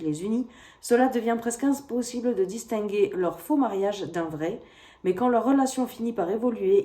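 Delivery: fluent, measured read-aloud of a book blurb. A narrator's reading. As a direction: read out the back-cover summary like a story. Reads the book's blurb aloud. (lecture à voix haute d'un résumé de roman)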